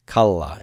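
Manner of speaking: Kala, accent on KA, falling away; stress on first syllable. Shown as a demonstration. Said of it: "keep that stress on the root one letter".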